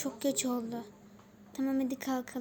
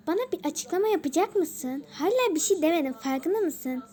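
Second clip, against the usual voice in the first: raised, mildly exasperated play voice; annoyed demand; 4 semitones higher, 4 dB louder than usual. Pretend. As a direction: demand answers with some impatience. Acted demand for an explanation.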